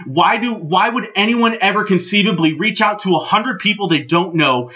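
retold indignant tirade; worked-up telling-off; exasperated rant. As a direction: lay down your stance, fed up. Acted angry rant at the promoter.

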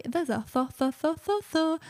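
struggling with "th-" sound, repeating it; tongue tripping on "th-"; stuttering on th. Real, not acted. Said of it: "That's difficult".

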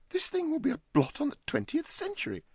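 high, loud outrage; outraged host. Acted. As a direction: cry out in moral horror. Huddle outraged.

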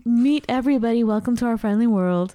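bright-pitched, happy welcome; excited welcome. Real, not acted. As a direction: welcome a friend in eagerly. Welcoming the guest onto the show.

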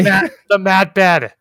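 slow, grand showman's unveiling; florid victorian lecturer. Pretend. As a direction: present it like a pompous exhibitor.

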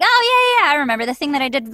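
high "oh yeah" tumbling into fast talk; rapid-fire acted agreement; quick recollection. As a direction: breezily rattle off that you remember. Acting out sudden recollection to agent.

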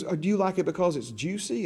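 a hint of a mom asking her small child. Mom voiced questioning her little boy.

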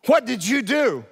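high, loud mock interrogation; hammed-up accusing question; sharp wife. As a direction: demand it like an indignant wife. Wife's sharp demand, acted.

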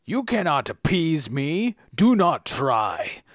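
slow, commanding troll voice. Acted. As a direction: lay down the law like a troll. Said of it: "dial in a troll voice here?".

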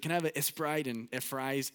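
put-on Mexican accent with an E before "Sprite" and "fries"; mild mock Mexican accent; grandpa's Mexican accent. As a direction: lightly imitate a Mexican grandpa ordering. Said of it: "he would add an E at the beginning of everything".

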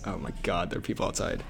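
hushed, urgent whisper; panicked whisper. Real, not acted. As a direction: whisper so they won't hear. Hiding in classroom, people outside.

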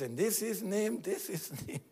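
the soul rejecting a false god; insistent rejection. Retold or imitated. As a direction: refuse the counterfeit firmly. Voicing the soul rejecting counterfeits.

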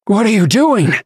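high-pitched startled cry; startled yelp. A narrator's reading. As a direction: yelp it in sudden alarm. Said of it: "he managed a half-choked yelp".

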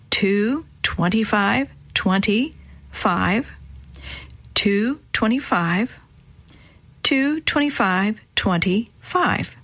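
slow code read-out. Acted. Reading out the code slowly.

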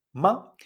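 short "ma" without tonal shaping; neutral tone. Shown as a demonstration. Teacher giving the toneless example, brief "ma". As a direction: let "ma" go lightly and briefly. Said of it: "sin hacer ninguna entonación".

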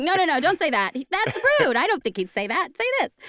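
high, loud bossy coaching; excited high coaching. Retold or imitated. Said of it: "So it's like".

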